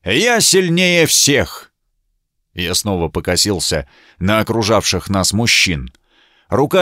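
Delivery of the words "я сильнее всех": медленно, высоко, напоказ; горделиво выкрикнуть похвальбу; хвастливый крик. A narrator's reading. Рыцарь хвастливо кричит. (рыцарь медленно и гордо кричит, что он сильнее всех)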